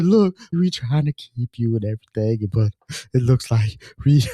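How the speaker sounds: mock choked-up, breaking between phrases; about to cry. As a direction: re-enact fighting back tears while delivering bad news. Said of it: "I'm about to cry myself".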